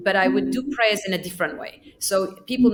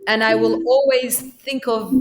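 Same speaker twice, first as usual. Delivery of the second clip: put-on childish poem recital. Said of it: "I've written something like this".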